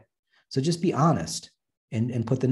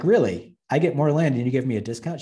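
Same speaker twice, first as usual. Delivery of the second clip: mock disbelief, pitched up and louder; incredulous; 3 semitones higher, 4 dB louder than usual. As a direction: act stunned at the absurd answer. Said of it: "And I'm like".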